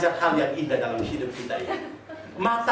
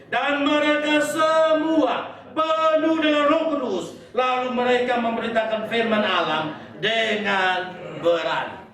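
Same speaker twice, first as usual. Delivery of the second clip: dramatic preaching; 3 semitones higher, slower than usual. Acted. Preacher dramatising Acts passage.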